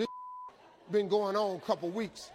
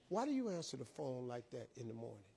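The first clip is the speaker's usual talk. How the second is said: disappointed; 7 semitones lower, 11 dB quieter than usual. Retold or imitated. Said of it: "I'm really disappointed in you".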